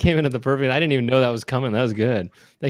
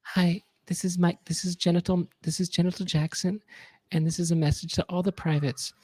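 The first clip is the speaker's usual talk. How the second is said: a gentle star greeting the troops; mock message from a singer; 4 semitones higher, 3 dB quieter than usual. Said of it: "sounds like this".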